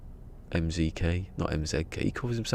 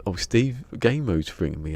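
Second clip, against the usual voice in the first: pretend phone call; 4 semitones higher, 4 dB louder than usual. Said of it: "pretend to be on the phone and go".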